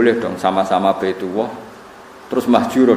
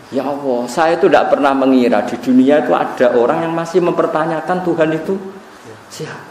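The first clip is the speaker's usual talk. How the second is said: tearful prayer; 4 semitones higher than usual. Retold or imitated.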